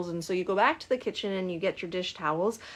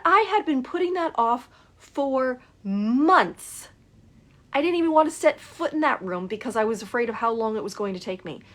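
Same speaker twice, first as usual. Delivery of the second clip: excited; 4 semitones higher, 5 dB louder than usual. Retold or imitated. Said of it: "she is so excited".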